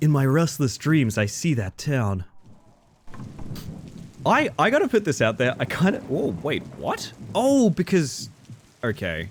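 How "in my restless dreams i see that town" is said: put-on, vague, neutral American accent. Reading a game line aloud: put-on vaguely american accent. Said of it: "vaguely American acc-, like, area neutral survival protagonist voice".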